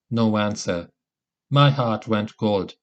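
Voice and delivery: ordinary delivery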